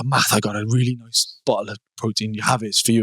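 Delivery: lightly done Welsh stepdad; a hint of a Welsh accent. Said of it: "That's the only accent you can do, the Welsh accent".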